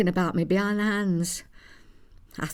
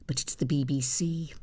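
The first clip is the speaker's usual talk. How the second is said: whisper; 3 semitones lower, 4 dB quieter than usual. Acted. Wry aside to audience.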